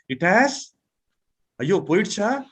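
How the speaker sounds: "Ayyo, poidcha" with a rising tune of dismay; dismayed surprise. Shown as a demonstration. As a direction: react to missing the train. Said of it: "we bring in like".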